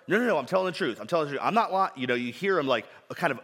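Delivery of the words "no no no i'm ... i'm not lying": put-on higher, louder protesting child; a kid insisting he's not lying, hammed up; child caught out, begging to be believed; pleading kid. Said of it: "Have you heard this before".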